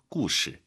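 故事 with 事 in a light neutral tone. Shown as a demonstration. Teacher shows learners the original word, neutral-tone 事 in 故事. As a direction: let 事 in 故事 drop unstressed after 故. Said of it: "여기서는 경성입니다".

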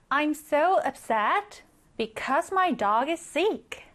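very slow, clear English example; slow model reading. Shown as a demonstration. Teacher reading the example sentence slowly for learners. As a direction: read each word slowly and evenly. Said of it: "나는 너무 upset해".

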